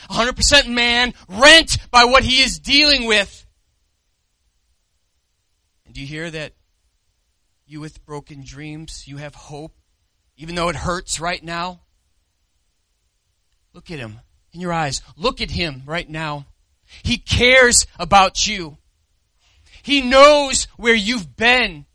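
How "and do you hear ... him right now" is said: soft, low pastoral voice; tender appeal. Acted. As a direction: gently draw the hurting close. Preacher speaks tenderly to listeners.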